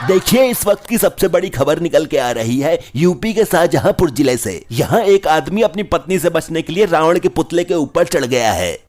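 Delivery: excitable breaking-news delivery; news reporter. Acted. Channel owner reports man atop Ravan effigy, news-reporter delivery. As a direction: announce it like a TV reporter. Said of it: "मैंने एक news channel बनाया है".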